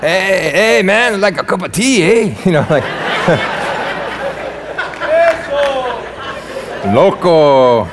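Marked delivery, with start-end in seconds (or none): 0.0-2.3 put-on British line slipping into a Hispanic accent; joking, hammed-up Hispanic accent. Pastor mocking his own British attempt, Hispanic accent. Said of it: "like, Hispanic accent". 6.9-7.9 put-on Hispanic accent. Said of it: "like, Hispanic accent".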